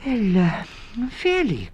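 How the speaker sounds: sleepy yawned words; yawning. Acted. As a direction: yawn through the words. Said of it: "yawned Missus Town Mouse".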